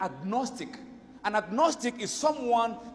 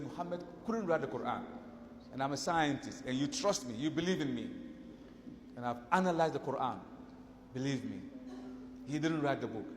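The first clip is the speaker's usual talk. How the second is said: softer, lower voice, earnest; low earnest confiding; 6 semitones lower, 8 dB quieter than usual. Retold or imitated. Scientist confiding to his colleagues, softly earnest. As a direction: lean in and confide it gently.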